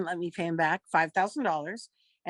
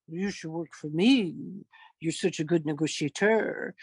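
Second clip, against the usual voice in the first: lightly voiced boss; 3 semitones lower than usual. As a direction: lightly imitate an admiring boss. Retold boss's pitch to her.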